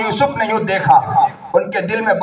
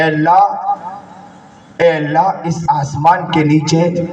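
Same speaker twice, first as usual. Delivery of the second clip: slow, drawn-out imploring cries of اے اللہ; a lightly performed sob of repentance; weeping plea. Retold or imitated. Preacher voicing man at the Kaaba begging forgiveness, mildly tearful. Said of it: "زاروں قطار رو رہا تھا".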